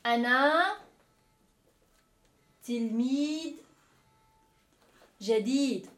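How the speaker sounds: loud, word-by-word Arabic model; drawn-out words with long pauses between; slow teacher modelling. Shown as a demonstration. Teacher models an Arabic sentence for learners, slow and loud.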